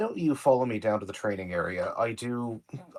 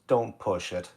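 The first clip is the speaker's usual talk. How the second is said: deadly neutral; slower than usual. Acted. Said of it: "almost deathly neutral glare".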